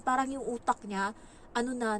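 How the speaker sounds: ordinary talk, nothing marked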